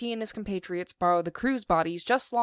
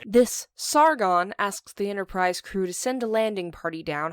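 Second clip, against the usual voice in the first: usual speaking voice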